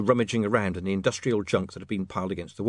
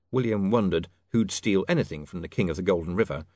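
ordinary delivery

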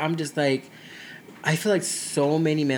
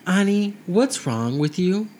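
slow, higher coaxing mom voice; lightly voiced mom coaxing her toddler, patient and slow; mother kneeling to coax a crying daughter, slow and higher; mother coaxing child; 4 semitones higher, slower than usual. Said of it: "she's gonna get down to the level".

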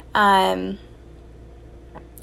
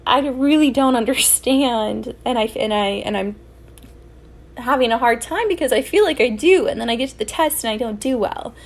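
higher, strained, near tears; retold tearful plea; 5 semitones higher than usual. Student near tears telling her teacher she keeps failing, strained. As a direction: pour it out to the teacher, half crying. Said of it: "I just started crying".

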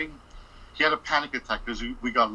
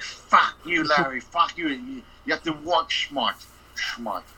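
angry boss; 3 semitones higher than usual. Retold or imitated. Coked-up boss yelling at the narrator's co-worker, angry. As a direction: yell it like a coked-up boss who has lost patience.

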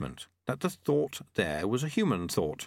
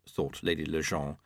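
ordinary delivery

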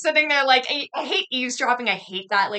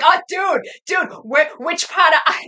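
loud, higher Boston dude voice; mock Boston accent; 6 semitones higher, 4 dB louder than usual. Locals accosting an Irish friend, loud mock Boston accent. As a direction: imitate a keen Boston local, loudly. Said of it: "people hear his accent, they're like".

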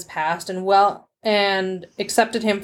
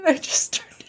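put-on small, high teenage voice; imitated naive eighteen-year-old; meek teen; 8 semitones higher than usual. Retells own timid teenage answer.

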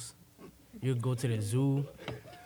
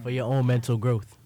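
mock wise philosopher; 7 dB louder than usual. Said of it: "Aristotle, the Greek philosopher".

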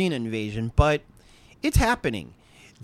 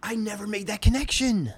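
raised, stunned realization; amazed; 6 semitones higher than usual. Real, not acted. Host stunned he missed the Parasite connection, amazed. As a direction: let the surprise carry the line.

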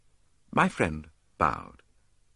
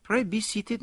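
higher, courteous host; politely, higher; polite Poirot. A narrator's reading. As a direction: offer the chair graciously. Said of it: "said Poirot politely".

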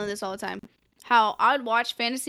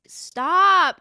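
a sudden high, loud cry; excited outburst; 7 semitones higher, 7 dB louder than usual. Retold or imitated. Fan recalling seeing the fairy painting, loud high excited outburst. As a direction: blurt it out, overwhelmed with excitement.

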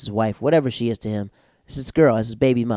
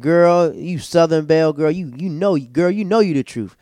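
gushing praise; 6 semitones higher, 6 dB louder than usual. Retold or imitated. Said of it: "I said".

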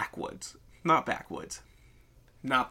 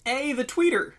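mock enthusiasm; 14 semitones higher, 6 dB louder than usual. Mock-enthusiastic mangling of Twitter's name.

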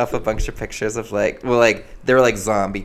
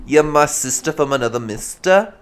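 New Jersey housewife; 2 semitones higher, 4 dB louder than usual. Pretend. Gushing to a best friend, hammed-up New Jersey housewife accent. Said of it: "We're New Jersey housewives together".

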